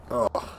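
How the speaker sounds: short recoiling "ugh"; disgusted groan. Acted. Vampire recoiling from the victim's neck, disgusted groan. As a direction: groan as if repelled mid-bite. Vampire's feeding suddenly goes wrong.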